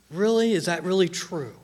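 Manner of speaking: doubtful, questioning reaction; "really?" lifted in doubt; suspicious. Acted. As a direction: voice a sceptical listener's second thoughts. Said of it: "second part that makes us suspicious".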